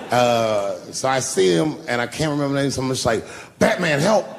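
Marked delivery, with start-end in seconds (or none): 3.6-4.2 mock cry for help, higher and louder; calling for help. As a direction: yell for Batman like it's an emergency. Calling for help when tackled.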